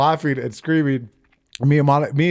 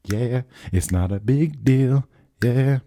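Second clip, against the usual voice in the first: casual shrug; 2 semitones lower, slower than usual. Acted. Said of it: "when I say it's not a big deal".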